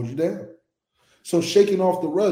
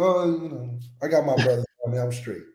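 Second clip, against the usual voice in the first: calm; 4 semitones lower than usual. Acted. Quarterback sure his brothers cover him, calm. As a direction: shrug it off, imitating a relaxed player. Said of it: "that's why he's so calm now".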